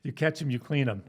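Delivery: high laughing saying. Retold or imitated. Quoting cop saying, laughing.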